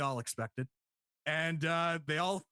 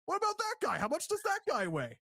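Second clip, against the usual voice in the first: high-pitched, excitable repeated questioning; Art Donovan; 10 semitones higher than usual. Retold or imitated. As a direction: imitate a commentator pestering with the same question. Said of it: "Art Donovan was more like".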